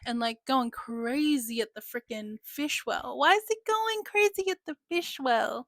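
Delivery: alarmed call. Retold or imitated. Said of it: "He's like".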